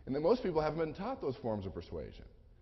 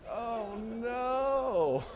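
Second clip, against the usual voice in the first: high, strained oh no; mock panic; 9 semitones higher than usual. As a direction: realize the blunder in alarm.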